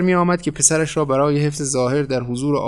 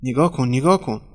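moaning. A narrator's reading. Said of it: "نالید".

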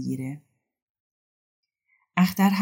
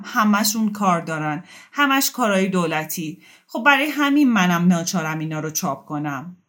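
talking loudly; 3 semitones higher, 5 dB louder than usual. Acted.

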